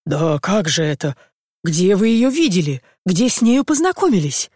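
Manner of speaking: flustered. Acted. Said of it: "в крайнем замешательстве".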